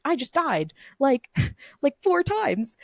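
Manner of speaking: half-laughing, climbing high in pitch; rising, giggly disbelief; incredulous. Retold or imitated. Retelling her dream panic.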